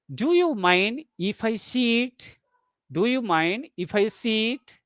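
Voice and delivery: slow question, rising towards SIT; deliberate model sentence with a rise at "sit". Shown as a demonstration. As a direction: stretch the line out and lift it into "sit". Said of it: "rising tone is given before sit".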